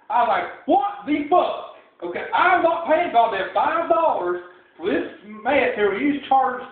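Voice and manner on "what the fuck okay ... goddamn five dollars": higher-pitched, drawn-out disbelief; slow, incredulous retelling of outrage; indignant outburst. Retold or imitated. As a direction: stretch it out in mock outrage. Acted outrage at the price.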